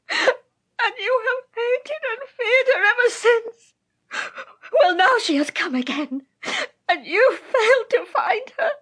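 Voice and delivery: crying, defiant taunt; tearful defiance. Acted. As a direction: taunt her through tears. Dying witch taunting through tears.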